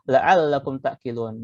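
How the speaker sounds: slow, deliberate Arabic phrase; slow Arabic quote; slow recitation. Shown as a demonstration. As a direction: draw the words out slowly. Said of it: "quoting verse slowly".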